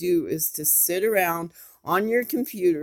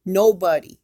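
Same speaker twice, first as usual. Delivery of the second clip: emphatic; 9 dB louder than usual. Real, not acted. Plea to stop cyberbullying.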